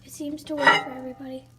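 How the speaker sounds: loud fast complaint; exasperated. Real, not acted. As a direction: blurt it out, frustrated. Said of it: "What happened to it?".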